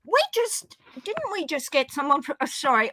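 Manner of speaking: half asleep and groggy; drowsy, struggling to find words; nodding off. Real, not acted. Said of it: "I'm half asleep".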